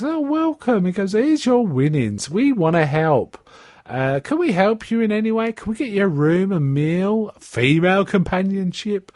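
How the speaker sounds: high, fawning host voice; casino manager. Retold or imitated. Casino boss fawning over the jackpot winner, high. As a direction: gush like an oily casino host.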